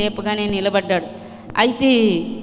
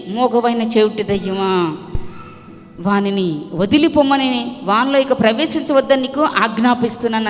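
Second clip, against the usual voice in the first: commanding rebuke. Acted. Jesus rebuking the demon.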